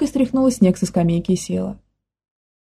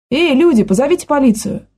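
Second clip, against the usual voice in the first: half-hearted shout; 5 semitones higher than usual. Acted. Manya calls for police, holding the girl, half-shouted. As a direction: call out for the police but hold back. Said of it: "Не слишком громко крикнула она".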